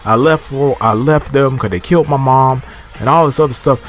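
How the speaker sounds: exasperated. Real, not acted. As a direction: vent at the character. Viewer scripting what he should say.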